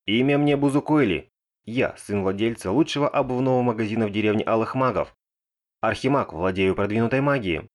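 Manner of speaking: grand, proud self-introduction; theatrical introduction. Acted. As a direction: announce yourself like a hero. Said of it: "Бузукойли внезапно представился". (пафосное представление)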